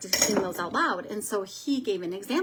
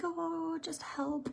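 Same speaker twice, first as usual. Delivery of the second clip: mock dismissive; 8 semitones higher, 8 dB quieter, much slower than usual. Voices how others see interpreters.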